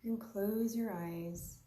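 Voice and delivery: unhurried meditation guide, long pauses between phrases; guided meditation. Real, not acted. Yoga teacher guiding listeners to observe their breath, unhurried guided meditation. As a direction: lead a breathing practice in short, spaced-out invitations.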